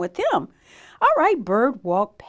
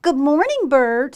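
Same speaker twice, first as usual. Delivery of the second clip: voiced Sheep; 3 semitones higher, 8 dB louder, slower than usual. A narrator's reading. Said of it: "said Sheep".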